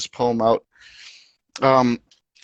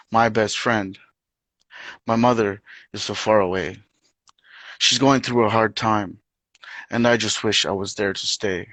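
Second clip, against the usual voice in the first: poetry reading. Acted. Reads own poem aloud.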